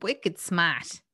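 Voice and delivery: light mock Boston accent. Echoing co-host's film line in Boston accent. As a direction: copy the Boston vowels playfully. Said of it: "it's just full of that accent".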